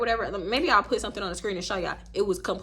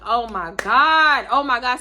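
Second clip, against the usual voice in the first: mild mock dread; 7 dB louder, slower than usual. Nervous reaction.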